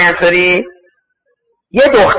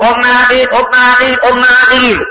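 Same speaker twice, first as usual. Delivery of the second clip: higher-pitched repeated call; retold summons from outside; 4 semitones higher than usual. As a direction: call her name toward the tent. Rider calls woman out of tent.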